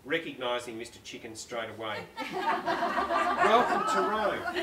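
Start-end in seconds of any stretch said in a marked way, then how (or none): 2.3-4.6 high, slow, breaking into laughter; can't get through it for giggling; laughing. Real, not acted. Author cracks up reading Federica's welcome, laughing.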